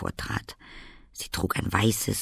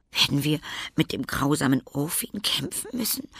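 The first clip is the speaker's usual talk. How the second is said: higher, a touch of fear in the question; frightened; 6 semitones higher than usual. A narrator's reading. Anne asking the fairy about the fight, frightened. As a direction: ask with alarm. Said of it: "fragte Anne erschrocken".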